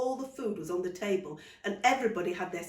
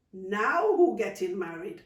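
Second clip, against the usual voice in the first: teasing; 6 dB louder, slower than usual. Acted. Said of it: "Auntie May teased".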